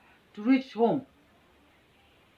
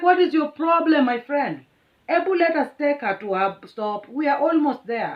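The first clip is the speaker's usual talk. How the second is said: louder, higher exasperated plea; frustrated doorman; 6 semitones higher, 6 dB louder than usual. Retold or imitated. Doorman scolding the driver, loud frustrated plea. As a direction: plead loudly as the fed-up doorman. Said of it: "He's like".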